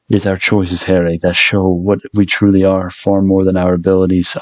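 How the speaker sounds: a lightly voiced old British wizard, barely shifted; mock-solemn Dumbledore line, hardly changed from his own voice; bad Dumbledore impression. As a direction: quote the wise headmaster in a half-hearted British accent. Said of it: "that's such a bad accent for, for, uh, Dumbledore".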